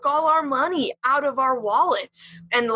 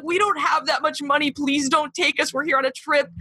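higher-pitched imitation of pleading; retold sobbing plea; 4 semitones higher than usual. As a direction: beg in a lightly acted tearful way. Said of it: "We were, like, sobbing".

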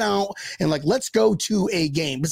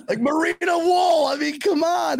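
incredulous shout; 12 semitones higher than usual. Retold or imitated. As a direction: exclaim it, laughing in disbelief. Incredulous retelling of sock hunt.

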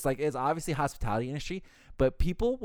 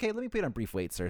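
higher, sugary phone politeness; polite hold voice; 3 semitones higher, 3 dB quieter, faster than usual. Retold or imitated. Clerk putting the guest on hold, chirpy. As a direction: chirp it like a call center.

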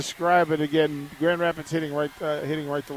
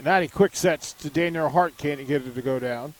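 measured volleyball play-by-play, key words punched; live play-by-play. Real, not acted. Radio announcer calls the point to listeners, play-by-play. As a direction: call the rally as it unfolds.

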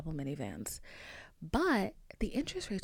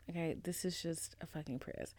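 soft deadpan whisper; dry whisper; 3 semitones lower, 9 dB quieter than usual. Retold or imitated. Car salesman answering mom, dry whisper. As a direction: whisper it dryly, resigned. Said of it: "And the guy was like".

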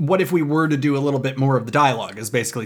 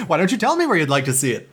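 Moviefone impression; 3 semitones higher than usual. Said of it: "that episode of Seinfeld where people kept calling Kramer".

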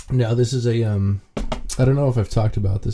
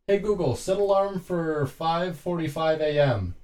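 higher, measured command to a device; voice-assistant command; 6 semitones higher, 5 dB quieter than usual. Shown as a demonstration. Owner telling Google to set alarm, measured command.

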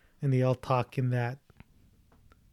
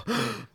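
quick shocked gasp; sharp gasp; 9 semitones higher, 6 dB quieter than usual. Retold or imitated. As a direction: gasp in surprise. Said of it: "I literally gasped in the theater".

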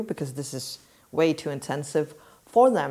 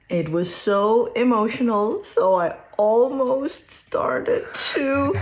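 playful high voice; 7 semitones higher, slower than usual. Real, not acted. Mother telling son about her speech, high and drawn-out. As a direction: stretch it out high for your son.

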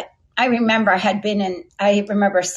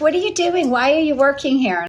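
put-on New York accent; 6 semitones higher than usual. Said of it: "with a really strong New York accent".

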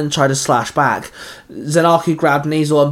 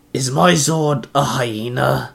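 slow, disbelieving huff; annoyed, incredulous question; huffy and unimpressed; slower than usual. A narrator's reading. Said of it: "Zanaku asked with a huff".

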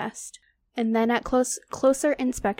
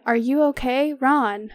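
loud, raised call through rubble; shouting; 3 semitones higher, 5 dB louder than usual. Acted. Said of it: "he shouted".

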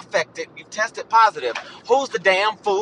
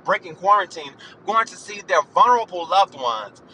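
ordinary delivery

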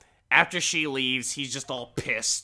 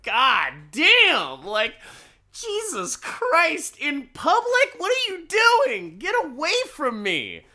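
much higher, louder panicked squeal; panicked husband; 6 dB louder than usual. Retold or imitated. Husband panicking as his wife makes a scene in public, high squealing panic. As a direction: shriek like a cornered man.

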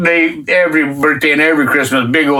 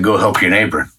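voice of God; 9 semitones lower than usual. Retold or imitated. God telling him to help the neighbor, low and commanding. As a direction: lower the voice to sound like a command from God. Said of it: "I hear the voice again says".

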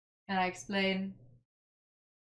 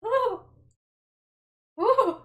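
high gleeful whoops; excited cheer; 12 semitones higher, 5 dB louder than usual. Real, not acted. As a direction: cheer like you just won. Player cheers at XP.

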